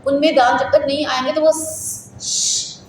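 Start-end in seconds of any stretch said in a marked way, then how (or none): 1.5-2.8 long drawn "श-" hiss; demonstrated hissed sound. Shown as a demonstration. Teacher showing a sound toothless children cannot say, long hiss. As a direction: hold "श-" as a sustained hiss. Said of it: "नहीं बोल सकेंगे".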